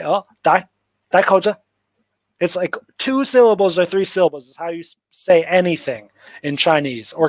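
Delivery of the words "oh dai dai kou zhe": "dai, dai kou zhe" said as a quick, offhand Cantonese request; quick Cantonese phrase. Retold or imitated. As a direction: toss off "dai kou zhe" like a Hong Kong staffer. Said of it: "Or they say".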